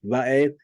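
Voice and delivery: "va'eth" said as a Hebrew word, va-AYTH; Hebrew pronunciation. Shown as a demonstration. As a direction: sound out "va'eth" for learners. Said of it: "So this is pronounced".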